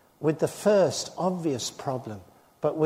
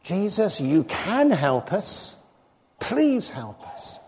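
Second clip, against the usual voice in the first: faithful man's slow, trusting appeal; trusting plea; slower than usual. Retold or imitated. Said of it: "If you knew me better... you would say".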